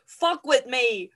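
loud, drawn-out mock challenge; hammed-up bravado; defiant dare. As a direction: throw down the gauntlet. Bride defiantly announces the ball.

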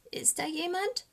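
high, small voice rising at the end; hushed frightened raven, barely daring to ask; fearful hushed question. A narrator's reading. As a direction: ask timidly into the dark. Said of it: "flüstert der kleine Rabe".

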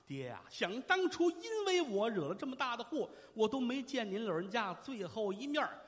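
theatrical wail for a dead father; stagey grief, no real sobbing; mourning son. Acted. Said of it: "这通哭啊".

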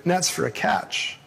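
measured, solemn Bible reading to the congregation; scripture reading. Acted. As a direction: read the passage steadily, like a lectern reading. Reading the Gospel passage aloud.

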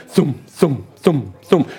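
evenly spaced helicopter thuds; imitated helicopter thum. Storyteller imitating an arriving helicopter, thudding mouth noise. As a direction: voice the beat of rotor blades.

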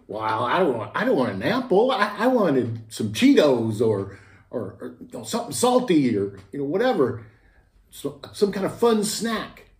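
put-on sulky child wanting snacks; whiny kid. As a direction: whine back like a pouty boy. Kid arguing back to mom.

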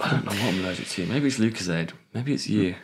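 talking with a tissue up the nose; blocked nose from a tissue; tissue up one nostril. Real, not acted. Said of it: "I'm gonna stick a tissue up my nose".

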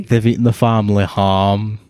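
slow, deliberate mock Scottish; slow Scottish impression. Teasing a friend's slow attempt, mock Scottish accent. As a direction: imitate a laboured Scottish accent. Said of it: "really slowly as a Scottish person".

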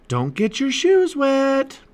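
high, loud, drawn-out call; mom calling out. A narrator's reading. Mom calls a warning to departing kids, high loud call. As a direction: call it slowly across the house. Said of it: "called his mom".

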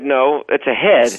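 slow deadpan, no hint of a joke; slow deadpan answer to a baffled security guard; straight face. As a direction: say it dead serious, slowly. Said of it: "with a straight face".

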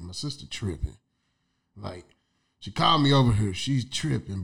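hushed excuse, softly; muttered aside. Retold or imitated. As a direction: say it under your breath. Imagined quote to the men.

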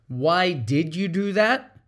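slow, curious why; genuinely want to know; slow and gentle, sincerely asking; sincere question. Shown as a demonstration. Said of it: "As opposed to".

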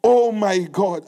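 slow, moaning oh my God; mock despair. Preacher acting out a believer crushed by news, mock despairing. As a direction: imitate someone crushed by bad news. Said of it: "burst into tears and say".

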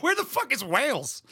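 mock-baffled cry; baffled outburst. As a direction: toss it off in disbelief. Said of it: "I'm like".

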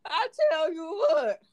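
put-on a light rural Southern farmer accent; country accent. A hint of Southern farmer accent mocking mask rules. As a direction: play a country farmer scoffing at masks. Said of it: "what you doing that accent".

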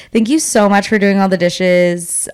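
mildly passive-aggressive thanks. Shown as a demonstration. Texting a roommate who left the dishes, a little passive-aggressive. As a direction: thank them with a slight dig underneath. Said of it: "be a little passive aggressive".

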